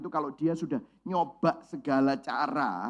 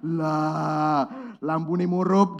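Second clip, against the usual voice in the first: Surabaya Javanese; 3 semitones lower, 4 dB louder, much slower than usual. Retold or imitated. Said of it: "kalau Surabaya ngomong".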